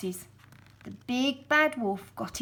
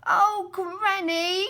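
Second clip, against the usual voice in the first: put-on wondering girl; 9 semitones higher, 6 dB louder, much slower than usual.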